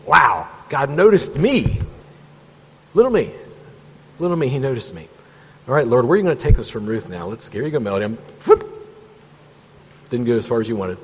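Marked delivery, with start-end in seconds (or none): 0.1-7.3 awed wonder. Retold or imitated. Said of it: "It's like".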